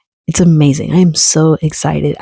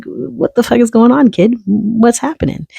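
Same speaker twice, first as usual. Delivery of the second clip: pitched way up, What the fuck is going on said in disbelief; high incredulous self-scold; 7 semitones higher than usual. Retold or imitated. Veteran scolding himself about needles, high and incredulous. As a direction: scold yourself in a raised, high voice.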